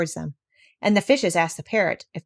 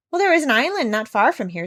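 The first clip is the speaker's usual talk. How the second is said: raised voice for the porpoises; porpoises calling out; 4 semitones higher than usual. Acted. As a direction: call it across the water. Porpoises call out to ship.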